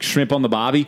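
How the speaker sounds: mock Australian accent. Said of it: "that advertisement ... it's like".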